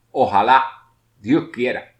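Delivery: loud, hopeful plea on Ojalá; fervent wish. Shown as a demonstration. Teacher demonstrates an invocation as a loud plea. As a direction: plead to the heavens. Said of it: "Al principio y al final de las invocaciones".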